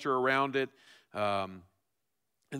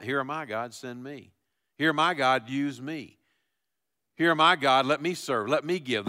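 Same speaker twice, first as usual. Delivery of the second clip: Here am I rising louder each time; building plea; 4 dB louder than usual. Acted. Pastor voicing the prophet's offer to God, building louder. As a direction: climb from plea to cry.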